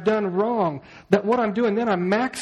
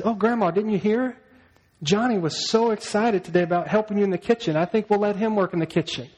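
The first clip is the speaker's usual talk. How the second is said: a hint of sly little girl, faux innocent; lightly voiced Sally, sugary and sly; mildly put-on innocent sister voice; sweet scheming sister; 4 semitones higher than usual. Sally sweetly tricking Grandma.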